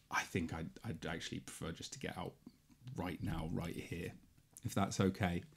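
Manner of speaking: very soft, low, uneasy voice; imitating a nervous, hushed passenger; timid polite request. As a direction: ask meekly, barely daring to speak up. Brother timidly asking to get out.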